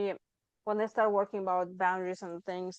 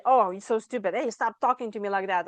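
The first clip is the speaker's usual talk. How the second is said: mock self-scolding; 6 dB louder than usual. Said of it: "you say".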